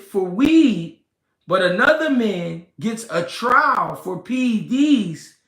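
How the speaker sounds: slow, emphatic spelling-out of a point; deliberately slow. Real, not acted. Making listeners hear his point, deliberately slow. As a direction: lean on each phrase, slowly and firmly. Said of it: "I'm talking slow for a reason".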